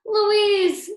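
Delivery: high, loud relieved cry of a name. A narrator's reading. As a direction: burst out with relief. Relieved reunion with sister.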